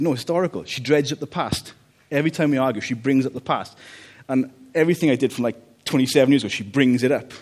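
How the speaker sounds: imitating dad. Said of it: "He said".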